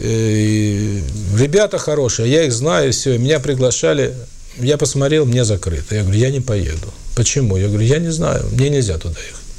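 ordinary delivery

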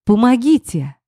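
high, loud call for help; cry for help. Acted. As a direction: shout for help in panic. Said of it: "не своим голосом закричала я".

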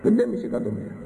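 a high-pitched offhand retelling of the price; a lightly mimicked careless price quote; mocking the casual tone. Preacher mimics a woman boasting about a cheap price. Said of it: "και το έλεγε έτσι".

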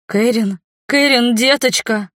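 mother's loud frightened cry. A narrator's reading. Mother cries out in fear as her daughter's veins glow, loudly. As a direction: shout to pull her back, frightened. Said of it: "Громкий крик мамы".

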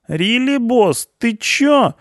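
very high, loud protest; indignant punk. A narrator's reading. Punk protesting to the boss, indignant. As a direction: squawk in disbelief at the boss. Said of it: "возмутился панк".

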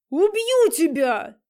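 loud, slow, drawn-out threat; furious roar. A narrator's reading. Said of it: "заорал Влад". (яростный рёв)

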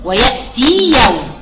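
سكّني الياء في "ويأتي يوم" ببطء; تسكين الياء؛ "ويأتي يوم" slowly, the ي held still. Shown as a demonstration. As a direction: stretch "ويأتي يوم" gently, the ي sukun clear. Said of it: "هتسكني".

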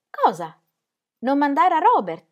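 high, loud disbelief on Robert; astonished question. Acted. Ingeborg asking Ingram in disbelief, astonished. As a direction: react as if it makes no sense.

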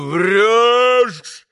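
громкий протяжный обвиняющий крик; выкрикни обвинение высоко, растянув слово; гневный вскрик. A narrator's reading. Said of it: "вскричал Митя". (яростный высокий окрик)

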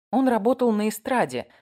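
ordinary delivery

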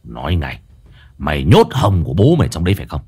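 low, fast, menacing interrogation of his wife; drunken husband hissing threats; angry hissing. A narrator's reading. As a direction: spit the accusations out quickly and low. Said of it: "lão Vang rít lên".

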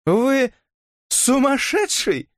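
very high, drawn-out shocked exclamation; exclaiming. A narrator's reading. Elisa shocked by Robert's proposal, high exclamation. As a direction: gasp it out in disbelief. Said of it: "Элиса воскликнула".

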